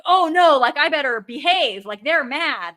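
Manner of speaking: hammed-up oh-no panic; mock worried kid. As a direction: play the child suddenly realising trouble. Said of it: "I'd be like".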